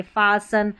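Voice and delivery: फासन with no T, faa-san; फासन as the correct form, T silent. Shown as a demonstration. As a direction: say फासन, T dropped. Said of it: "नहीं पढ़ेंगे".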